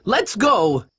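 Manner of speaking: high, drawn-out pirate cry; alarmed warning. Acted. Man warns the gang of danger, alarmed. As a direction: urge the others to flee.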